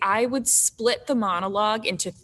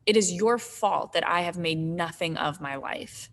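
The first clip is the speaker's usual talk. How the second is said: measured, earnest monologue read with slight lift; dramatic monologue reading; 2 semitones higher than usual. Acted. Nora confronting her husband Torvald, in a measured monologue reading. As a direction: read it as a restrained stage confrontation. Reads Nora's monologue aloud.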